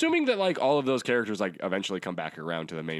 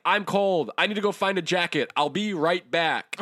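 mock whiny hero; 9 semitones higher, 4 dB louder than usual. Mocking hero leaving a fight.

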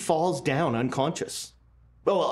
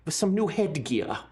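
Baron's voice; 3 semitones higher than usual. Acted. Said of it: "He says".

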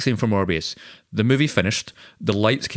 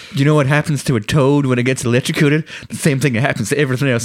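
mock Halle Berry; 3 dB louder, faster than usual. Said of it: "Halle Berry comes up and goes".

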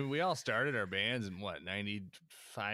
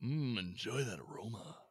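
whispering; 4 dB quieter than usual. Pretend. Mock connoisseur savoring scotch.

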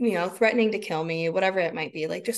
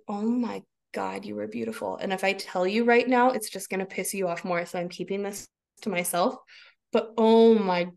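marveling adoration. Retold or imitated. Mother marveling at her screaming son, hushed adoring. Inner adoration of raging child.

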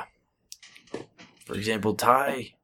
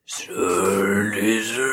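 very slow, drawn-out mock Asian accent; exaggerated Asian accent; 3 dB louder, much slower than usual. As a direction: stretch each syllable in a broad Asian accent. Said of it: "grossly exaggerated Japanese accent".

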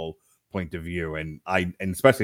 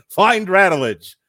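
slow, higher, loud mock command; mock dramatic order; 8 semitones higher, 9 dB louder, much slower than usual. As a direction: dictate it like an urgent secret dispatch. Acting out a note for a pigeon.

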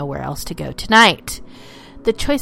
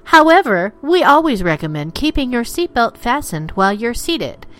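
lightly played cabin announcement; like a polite in-flight announcement; flight attendant; 3 semitones higher than usual. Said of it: "Ladies and gentlemen, the captain".

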